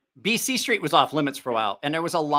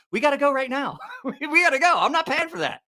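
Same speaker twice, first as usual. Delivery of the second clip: high, laughing through the quote; giggling as he quotes his friend; 10 semitones higher than usual. Real, not acted. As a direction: still cracking up. Friend urging to leave, laughing.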